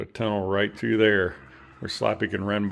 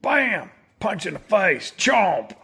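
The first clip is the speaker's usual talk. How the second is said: excited; 8 semitones higher, slower than usual. Real, not acted. Cheering on pet play fight.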